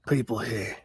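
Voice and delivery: put-on a light stab at an Australian accent; mild Australian accent, quickly dropped. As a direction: try the Australian voice on these two words. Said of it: "That's not a real accent".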